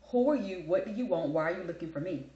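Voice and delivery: brisk, challenging questions, loud at first; curt phone answer. Acted. Answering an unknown caller on her phone, curt challenge. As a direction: fire questions at an unwelcome caller. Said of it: "That's how I answer my phone".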